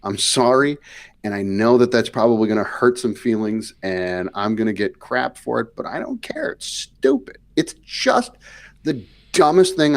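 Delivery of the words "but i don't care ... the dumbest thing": heated rant. Real, not acted. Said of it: "Don't hold back".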